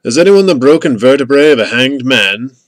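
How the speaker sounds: put-on loud call in a Hungarian accent. A narrator's reading. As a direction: call out the request as a Hungarian man. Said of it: "masculine voice with a Hungarian accent".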